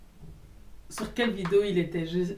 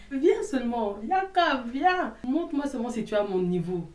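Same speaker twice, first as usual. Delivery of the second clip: mock challenge; 4 semitones higher, 4 dB louder than usual. Challenging the commenter to come.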